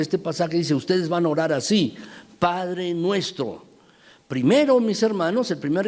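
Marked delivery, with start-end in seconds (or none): 2.4-3.6 "Padre nuestro" spoken slowly, both words drawn out; slow, deliberate weight on "Padre nuestro"; stressed slowly. Shown as a demonstration. Preacher quoting the verse for emphasis, slow and weighty. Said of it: "Quiero hacer énfasis en esto".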